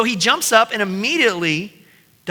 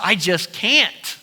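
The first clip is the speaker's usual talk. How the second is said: finally giving up; much slower than usual. Retold or imitated. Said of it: "you just finally say".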